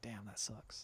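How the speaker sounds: very soft, deflated aside. Retold or imitated. Host reacts to the girl overhearing the refusal, deflated. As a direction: drop right down in sympathy, barely voiced.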